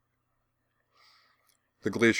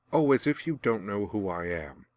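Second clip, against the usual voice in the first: spat. A narrator's reading. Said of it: "the Glacier Girl spat".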